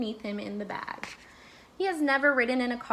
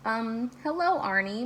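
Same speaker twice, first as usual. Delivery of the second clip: stammering. Acted. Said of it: "Mister Bing stammered".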